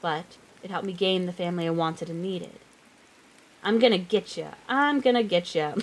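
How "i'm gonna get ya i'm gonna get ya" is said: lilting, playful sing-song chase. Acted. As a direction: tease it out in a bouncy singsong. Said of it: "Lucas says in a sing-song voice".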